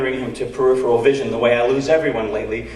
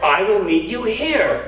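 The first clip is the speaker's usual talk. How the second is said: laughing; 6 semitones higher, slower than usual. Retold or imitated. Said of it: "Dave voiced again, laughing".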